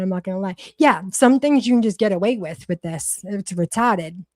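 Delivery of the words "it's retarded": drawn-out Boston "It's retarded" with no R; Boston accent. Shown as a demonstration. For a viewer who likes the accent, slow Boston drawl. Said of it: "I like the word in your accent".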